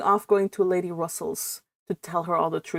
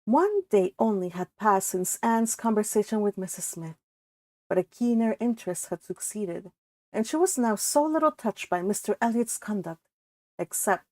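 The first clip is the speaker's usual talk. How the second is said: measured, even reading of a classic novel; story narration. A narrator's reading. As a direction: read it like an audiobook narrator. Reads novel aloud.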